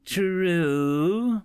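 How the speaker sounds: flat machine translator voice; robotic monotone reply. Acted. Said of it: "in a monotone voice".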